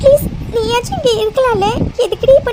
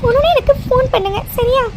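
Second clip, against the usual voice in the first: tearful farewell to parents; crying; 2 semitones higher than usual. Acted. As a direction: say goodbye through sobs. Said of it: "என்னடா இப்படி அழுதுட்டு இருக்க". (அழுகையோடு விடைகொடுக்கும் குரல்)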